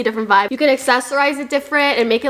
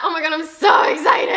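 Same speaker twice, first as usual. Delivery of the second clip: excited cry; 5 semitones higher than usual. Real, not acted. Thrilled about matching skirt.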